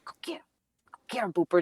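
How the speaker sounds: barely voiced, hushed command; whisper. Owner secretly siccing her dog on husband, whispering. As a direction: whisper it like a secret attack order. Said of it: "I just whisper to her".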